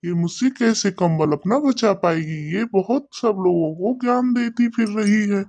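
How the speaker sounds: a lightly voiced sly crow, plotting; a hint of a sly crow talking to himself; scheming crow. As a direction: mutter like a crafty crow planning a theft. Crow character muses scheming.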